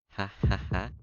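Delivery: forced laugh. Acted. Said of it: "I begin to laugh".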